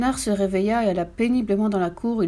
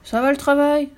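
high, loud farmer's holler; shouting farmer; 6 semitones higher, 5 dB louder than usual. A narrator's reading. Farmer waking in bed, loud shouted question. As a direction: holler it, pitched well up. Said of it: "se réveilla et cria".

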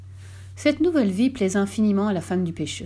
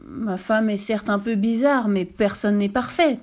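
stammered. Acted. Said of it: "bredouilla le vieux pêcheur".

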